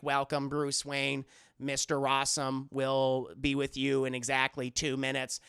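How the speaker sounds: low, measured robot butler voice. Acted. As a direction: read it out like a polite machine, low. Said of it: "little robot butler greets him".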